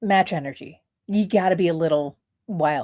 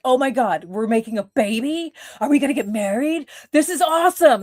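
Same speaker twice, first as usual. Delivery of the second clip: high, gushing mock delight; fake excitement; 7 semitones higher, 3 dB louder than usual. Faking joy at the captor, a high gushing squeal. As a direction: gush like it's the best news ever. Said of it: "Be like".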